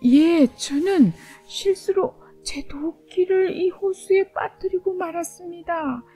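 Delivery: high, careful, timid answer; careful woodcutter. Acted. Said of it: "조심스럽게 대답했습니다".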